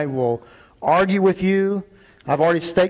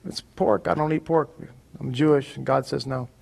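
soft, gentle refusal, getting quieter to the end; polite and loving; 2 semitones lower, 5 dB quieter than usual. Shown as a demonstration. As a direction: decline kindly, quietly, no edge. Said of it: "very politely and very lovingly say".

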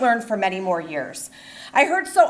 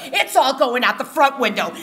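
a controlled mother's ultimatum; calm threat. Retold or imitated. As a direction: state the threat coolly, no raised voice.

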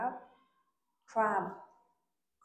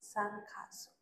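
whispering; 8 dB quieter, slower than usual. Acted. Teacher whispers word to child.

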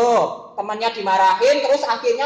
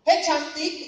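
catcalling; 6 semitones higher, slower than usual. Shown as a demonstration. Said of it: "kayak gitu".

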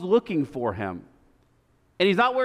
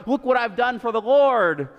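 proud Saul; 4 semitones higher than usual. Retold or imitated. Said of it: "Saul's there all proud".

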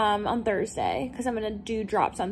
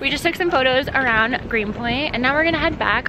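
too much caffeine; 3 semitones higher, 5 dB louder than usual. Real, not acted. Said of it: "I feel like I'm talking a million miles an hour".

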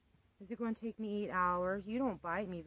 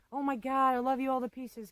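higher, bubbly mock fan love; mock fake gushing; 5 semitones higher, 5 dB louder than usual. Mocking fake YouTubers to viewers, sugary gushing. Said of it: "all fake smiley".

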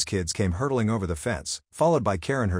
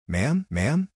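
higher and firmer cut-off; sharp interruption; 6 semitones higher than usual. Acted. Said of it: "cut her off sharply".

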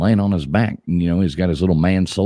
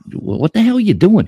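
much higher, louder cowboy; mock cowboy shout; 4 dB louder than usual. Cowboy shouting at the second Indian, high and loud. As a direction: yell it down in disbelief.

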